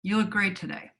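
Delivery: "look" leaned on, falling off after it; weight "look", let the rest fall; stress on look. Shown as a demonstration. Actress demoing another reading, stress on "look". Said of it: "Or I could say".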